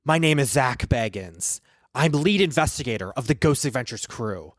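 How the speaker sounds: Zach Bagans. Acted. Ghost hunter introducing himself and his quest, solemn host impression. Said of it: "I can do a really good Zach impression".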